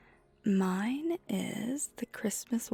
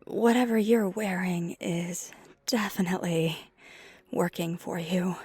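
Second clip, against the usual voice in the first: halting, flustered compliment with long pauses; flustered flirting. Acted. Skater complimenting first-timer after the kiss, flustered.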